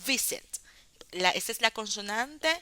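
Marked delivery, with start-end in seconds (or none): 0.1-0.4 "visit" pitched high, strong on VI; first-syllable stress. Shown as a demonstration. Teacher demonstrating the strong syllable, stress on start of "visit". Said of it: "la consonante fuerte es V".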